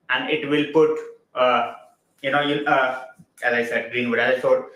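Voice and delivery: halting, stumbling over the words; real hesitant, broken-up delivery; stuttering a bit. Real, not acted. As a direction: lose the thread, restart with uhs. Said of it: "I'm stuttering a bit".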